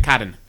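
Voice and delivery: "cotton" with the double T softened toward a D; Milwaukee cotton. Shown as a demonstration. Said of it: "double T's in the middle of words".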